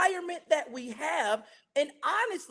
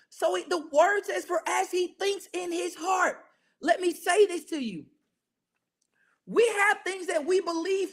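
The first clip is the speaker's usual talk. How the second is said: raised, insistent preaching voice with measured pauses; emphatic preaching; 4 semitones higher than usual. Real, not acted. Preacher urging believers to change their thinking, emphatic preaching. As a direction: drive each phrase home to the congregation. Preacher intensifies exhortation to congregation.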